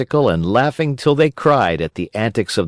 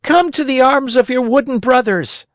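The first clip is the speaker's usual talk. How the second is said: joyful invitation. A narrator's reading. Harlequin's loving invitation.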